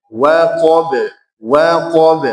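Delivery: WAQAB with a heavy first wa; wrongly thickened wa. Shown as a demonstration. Teacher shows the forbidden reading, waqab with thick wa. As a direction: darken the wa in waqab as a mistake. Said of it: "Itu tebal".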